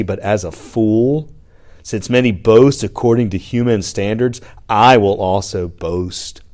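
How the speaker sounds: put-on teen angst, dripping sarcasm; sarcastic reading. Shown as a demonstration. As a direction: read it like an eye-rolling teenager. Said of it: "so important to read this sarcastically".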